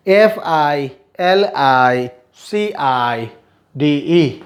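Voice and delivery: letters spelled slowly, one by one; slow spelling out. Shown as a demonstration. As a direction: dictate each letter slowly for the class. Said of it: "मैं सिर्फ spellings पढ़ूंगा".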